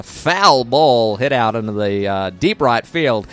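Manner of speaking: slow drawn-out play-by-play; baseball commentary. Pretend. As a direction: call it like a baseball broadcaster. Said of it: "give one quick update in the score".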